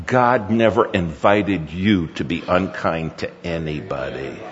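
gently but firmly lay down the rule; measured admonishment. Retold or imitated. Father correcting his son after yelling, measured admonishment.

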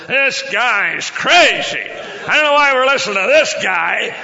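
put-on loud, drawn-out drunken heckle; heckling drunk. Drunk in the back row heckling the preacher, loud shout. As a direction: holler it slowly like a disruptive drunk. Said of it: "there was a drunk".

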